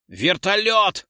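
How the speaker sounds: loud, high, drawn-out yell; shouted order. A narrator's reading. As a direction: yell the order, stretching the word. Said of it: "крикнул Террачини". (протяжный командный крик)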